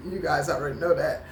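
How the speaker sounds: quick words through a laugh. Real, not acted. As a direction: laugh it off at yourself. Laughs at herself crying.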